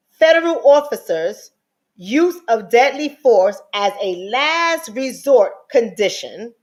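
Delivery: slow, each word spelled out. Shown as a demonstration. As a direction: lay it out slowly for the slow ones. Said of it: "So let me slow it down".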